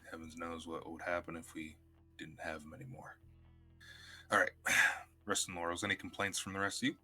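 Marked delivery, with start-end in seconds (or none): 2.2-3.2 whispered aside. Real, not acted. Unvoiced aside.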